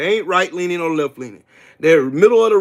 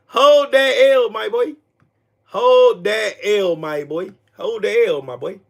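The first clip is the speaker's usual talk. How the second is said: slow, stretched-out gloating; drawn-out taunt; 2 semitones higher, slower than usual. Real, not acted. Streamer telling Tito to take the loss, slow gloating taunt. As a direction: stretch each word to rub it in.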